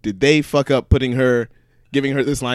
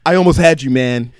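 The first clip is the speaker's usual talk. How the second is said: white guy voice; 5 dB louder than usual. Retold or imitated. Paul Walker to Vin Diesel, lightly mocked white voice. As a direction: play it a little square and eager. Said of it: "as white as he could say it".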